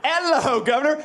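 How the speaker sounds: British hello with lifted ending; hammed-up British accent; mock British accent. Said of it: "it sounds like a British person".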